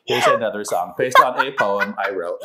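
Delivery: monotone robot voice; flat robotic delivery. Pretend. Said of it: "You have to do the robot voice".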